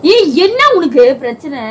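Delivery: loud, sharp shout of irritation; an annoyed wife shouting at her husband for waking her; angry yell. Real, not acted. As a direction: snap at him, fed up and sleepy. Woken wife yells at prankster.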